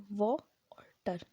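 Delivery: व and टर said apart, slowly; syllables split. Shown as a demonstration. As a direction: break वाटर into व and टर. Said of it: "इसमें भी दो सिलेबल". (व और टर अलग अलग)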